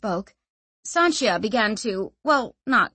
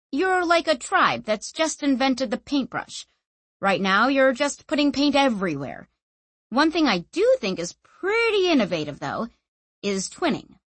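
higher-pitched, animated reassurance; casual explainer character; 5 semitones higher than usual. Acted. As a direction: explain lightly, as to a novice. Narrator voices Clef explaining.

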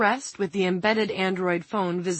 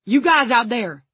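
loud, high call for help; shouting; 6 semitones higher, 8 dB louder than usual. A narrator's reading. Frank calling to his men outside, shouting. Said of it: "he shouted".

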